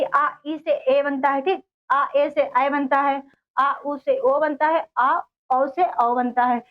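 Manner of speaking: slow, vowel by vowel; slow teaching recital. Shown as a demonstration. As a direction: spell each vowel out slowly so the class can follow. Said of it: "ये हमारे विजातीय स्वर हैं".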